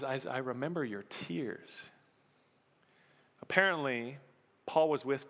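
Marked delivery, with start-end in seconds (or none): 0.0-1.9 soft repeat. Real, not acted. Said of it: "Paul says".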